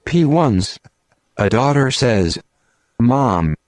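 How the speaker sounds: hammed-up robotic computer announcer; deadpan machine reading jokes to the radio listeners; cowboy computer voice. Computer bit telling jokes to callers, robotic deadpan. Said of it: "I'm the Big Strong Cowboy Computer".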